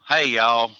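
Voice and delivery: folksy Southern drawl selling the slogan. Acted. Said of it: "in the Southern drawl".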